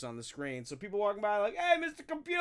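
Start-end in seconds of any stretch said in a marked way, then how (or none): 1.6-2.4 high, chirpy mock greeting from a passerby. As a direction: call up at him like a cheery stranger.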